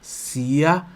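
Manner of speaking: very slow, syllable by syllable; deliberate teacher's dictation; piece by piece. Shown as a demonstration. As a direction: break the Italian into drawn-out syllables. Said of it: "Eu vou falar um pedacinho".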